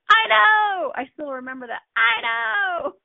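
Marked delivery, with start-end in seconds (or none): 0.1-0.9 high, loud laughing I know!; laughing exclaim. Real, not acted. Remembering the story now, laughing it out. 1.9-3.1 high crying laugh. Real, not acted. Recalling the moment, laughing near tears.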